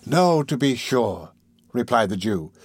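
slow, drawn-out agreement; slow humouring. Acted. Fagin agrees with Tom, slow humouring. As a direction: humour him, taking your time.

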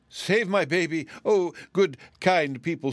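a frantic mother's high cry for help. A narrator's reading. Frightened mother begging strangers, frantic high cry. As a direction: plead loudly, high and desperate.

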